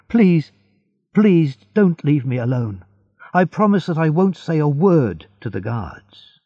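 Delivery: high, urgent pleading; crying out. Acted. Edmund begs the voice to stay, pleading cry. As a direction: beg him desperately to stay. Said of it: "he cried".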